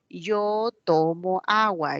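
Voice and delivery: a mild mock correction, verb in the middle; teacher correcting. Teacher corrects pupil Juanito's word order, slow and mildly stern. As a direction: say "yo tomo agua" slowly as a teacher giving the right order. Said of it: "el profesor lo desaprueba".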